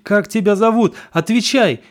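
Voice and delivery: loud, high demand to answer; shouted demand. Acted. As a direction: bark the question at the possessed boy. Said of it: "Бабка кричит". (громкий высокий требовательный окрик)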